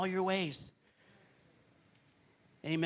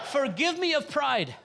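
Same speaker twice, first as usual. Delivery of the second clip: loud pleading call; fervent cry; 7 semitones higher, 6 dB louder than usual. Acted. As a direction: cry out for forgiveness. Leads fervent prayer aloud.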